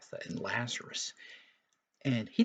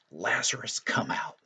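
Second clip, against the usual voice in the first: a light raised call, not a real shout; mild mock yell; 2 semitones higher, 4 dB louder than usual. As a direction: call Lazarus out, only slightly louder. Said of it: "he yells in a loud voice".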